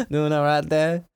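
hammed-up British greeting; bad British accent. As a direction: imitate a poor British accent. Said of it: "really bad British accent".

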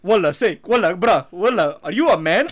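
loud mock Arab accent, baffled. Confused Arab guy questioning the girl's voice, loud accented imitation. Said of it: "this Arab's like".

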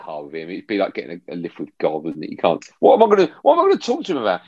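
high, fast, flustered inner voice; nervous fan imitating his own younger self; mock panic. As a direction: squeak out the panic of meeting a hero. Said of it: "I was like".

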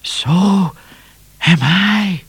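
very high, drawn cat voice; scared cat. A narrator's reading. Cat answering frightened Midnight, high scared voice.

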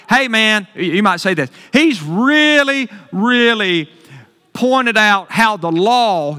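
mock naive believer voice; misunderstanding believer. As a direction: play the confused listener, slow and drawn out. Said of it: "you could misunderstand it".

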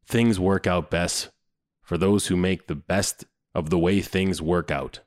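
lightly voiced dad, low and measured; a hint of solemn fatherly pronouncement; mock-profound dad. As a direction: deliver it like a dad's would-be wisdom. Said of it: "dad was trying to be profound".

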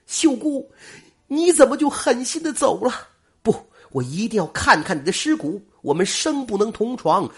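high, loud anguished calling; loud grieving cry. A narrator's reading. Grieving suitor at the grave calling to his lost bride, high and loud. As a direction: cry out the grief, voice pitched well up. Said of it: "忽然大声说道".

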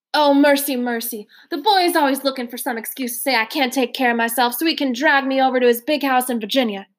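lightly voiced old gentleman, a touch flustered; a hint of a worried old man; fretting old man. Mister Randolph fretting about his son, lightly flustered.

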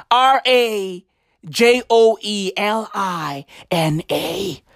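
letter by letter R A J O E L I N A; spelling it out. Shown as a demonstration. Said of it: "Let me spell it for you".

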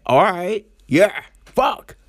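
hammed-up excitement, up high; mock eager agreement. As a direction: jump at the offer, pitch rising. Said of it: "He's like".

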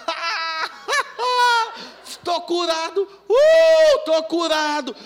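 high, loud laughter and cries; ecstatic laughing shout. Retold or imitated. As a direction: howl with joy at the healing. (gargalhada e grito de alegria, bem agudos)

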